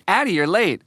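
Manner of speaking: high little classmate voice; schoolgirl voice. Retold or imitated. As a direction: tattle like a small girl, pitched high. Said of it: "one of the girls in her class goes".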